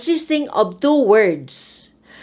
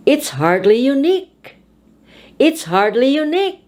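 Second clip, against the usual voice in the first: "unique" rising high; stress on the adjective; 4 semitones higher, faster than usual. Shown as a demonstration. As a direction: climb up to the end of "unique". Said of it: "put your voice high on the adjective".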